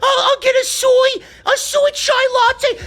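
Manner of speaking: mocking a Brooklyn hipster ordering coffee, laughing. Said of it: "Go fucking drink your soy chai lattes".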